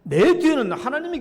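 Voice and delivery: 따라 하도록 힘차게 선창; repeat-after-me declaration. Shown as a demonstration. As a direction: lead the people in a bold shout. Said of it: "따라봅시다".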